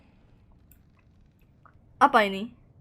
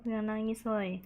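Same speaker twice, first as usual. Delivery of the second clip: ordinary delivery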